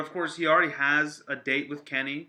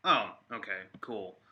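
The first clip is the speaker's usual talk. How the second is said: low, underwhelmed mock reaction; unimpressed reaction; 4 semitones lower than usual. Fan imagining an unsurprising guest reveal, unimpressed. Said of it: "I would be like".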